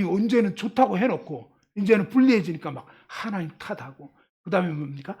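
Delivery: ordinary talk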